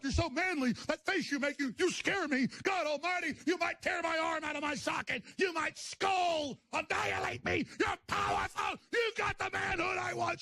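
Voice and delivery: mock worship building to squealing cries; high shrieking parody of a fan in awe; fawning sycophant. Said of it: "voicing fawning conservatives".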